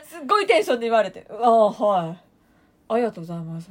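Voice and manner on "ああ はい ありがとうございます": deflated thanks. Retold or imitated. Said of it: "みたいな".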